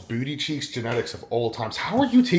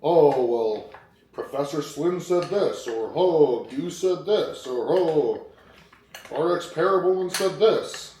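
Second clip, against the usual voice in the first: whiny client mimicry; 4 semitones higher, slower than usual. Mocking the client's excuses to the viewers, hammed-up whine. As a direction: parrot his excuses back in a nagging mock voice. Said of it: "And he's going".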